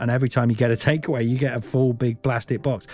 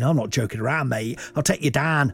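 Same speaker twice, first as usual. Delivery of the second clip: mock hard man, a bit higher and pushier; spider bravado; 3 semitones higher than usual. Lightly voiced spider threatening the man with the box. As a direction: puff up like a tiny bully. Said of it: "He's saying".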